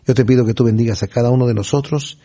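subdued, sincere closing prayer with pauses; oración. Real, not acted. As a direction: pray to God on the congregation's behalf, gently. (oración serena y recogida)

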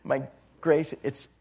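soft, gentle voice of Christ; gentle reassurance; gently. Acted. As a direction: speak tenderly and softly, reassuring. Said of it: "And Christ so gently just says".

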